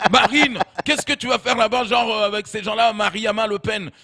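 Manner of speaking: high, dismayed fatherly scolding; hammed-up appalled father; Jean-Marie Le Pen. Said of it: "Et donc, son père".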